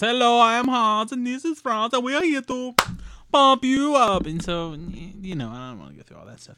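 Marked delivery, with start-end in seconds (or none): 0.0-4.3 very loud, very high, booming, shrill, slow, drawn-out. Recalling a sketch comedy bodybuilder duo: Hans and Franz voice. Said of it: "he did Hans and Franz".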